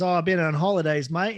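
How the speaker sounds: easygoing Aussie bloke in a joke; imitated Aussie mate; Australian accent. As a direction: put on an Australian vernacular. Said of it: "got the Australian vernacular down perfectly".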